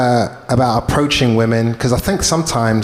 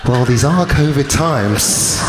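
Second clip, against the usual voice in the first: slow, resigned acceptance with a laugh; resigned shrug; 3 semitones higher, much slower than usual. Retold or imitated. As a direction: shrug it off, drawn out and amused. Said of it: "I thought to myself".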